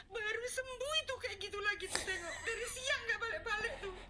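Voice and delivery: high, laughing-crying complaint; giggling, half-crying gripe; laughing exasperation. Real, not acted. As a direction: laugh through the frustration. Laughing exasperated about cat.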